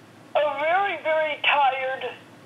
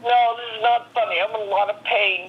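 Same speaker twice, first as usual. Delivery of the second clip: louder, indignant protest; upset protest; 5 dB louder than usual. Real, not acted. Caller protests the host's joke about her pain, indignantly. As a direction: snap back that it's no joke.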